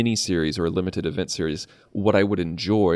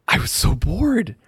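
drawn out bored; 11 semitones higher, 4 dB louder than usual. Real, not acted. Admitting the episode bored him.

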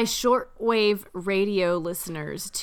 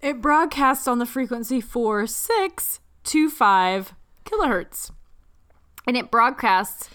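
radio voice; 2 semitones higher, 3 dB louder than usual. Shown as a demonstration. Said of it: "It's my radio voice".

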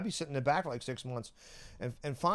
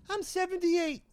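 imitated old lady; slower than usual. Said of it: "And she goes".

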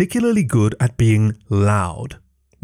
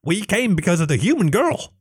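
high, small kobold voice; a meek little lizard servant; timid kobold; 8 semitones higher than usual. Acted.

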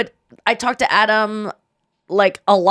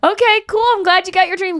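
mock indulgent; 10 semitones higher than usual. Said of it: "he goes".

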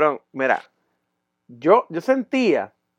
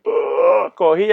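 normal talking voice

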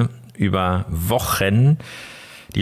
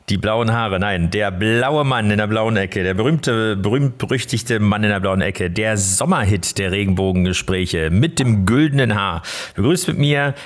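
boxing ring announcer. Acted. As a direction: call him in like a title fight. Introduces co-host from blue corner. (Ringsprecher beim Boxkampf)

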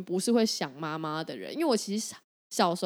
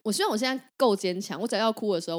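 normal talking voice

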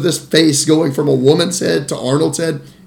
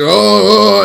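mock freak-out; 4 semitones higher, 3 dB louder than usual. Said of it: "freak out in this scene".

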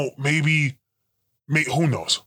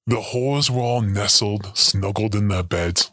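story reading; 2 semitones lower than usual. Acted. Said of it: "writing a little Christmas story".

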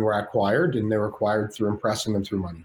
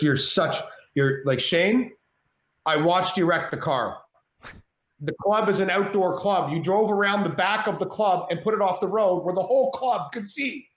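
mock scolding girlfriend, pitched higher; a lightly voiced exasperated girlfriend, climbing higher; 7 semitones higher than usual. Girlfriend scolding after the wreck.

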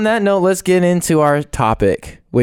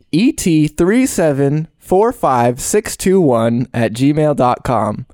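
slow, careful spelling out of the address; slow dictation; slower than usual. Acted. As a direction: read each character deliberately. Reading email address slowly.

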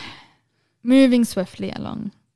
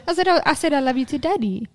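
retold explanation to child; 5 semitones higher, faster than usual. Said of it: "And he was so shocked".

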